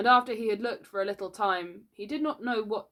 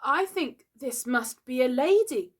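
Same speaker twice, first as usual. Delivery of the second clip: put-on high, fearful boyish voice; scared voice; 7 semitones higher, 4 dB louder than usual. A narrator's reading. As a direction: voice a dawning dread. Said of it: "he said in a scared voice".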